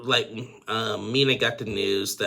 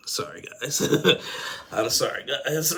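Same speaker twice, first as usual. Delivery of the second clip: choked-up apology, breath catching; real emotional; 6 semitones higher than usual. Real, not acted. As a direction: apologize with a teary little laugh. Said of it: "That just got me really emotional".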